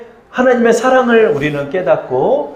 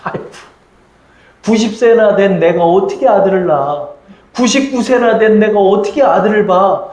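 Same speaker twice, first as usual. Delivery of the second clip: scoffing disbelief; 3 semitones higher than usual. Acted. Sarah to herself on hearing she will bear a son, mildly scoffing. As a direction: act out an old woman's doubtful scoff. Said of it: "피식 웃는 거예요".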